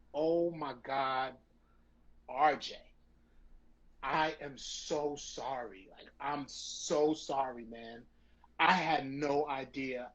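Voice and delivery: slow, understated remorseful apology; on the verge of tears. Retold or imitated. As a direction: apologize slowly, heavy with guilt. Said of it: "on the verge of tears".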